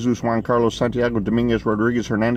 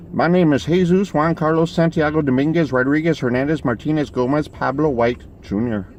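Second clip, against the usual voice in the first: higher-pitched mock Mexican accent, reeling off names; rough Mexican accent; 6 semitones higher than usual. Stranger introduces himself with his very long name, mock Mexican accent. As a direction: roll out a grand name in a put-on Mexican accent. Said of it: "how to do a good Mexican accent".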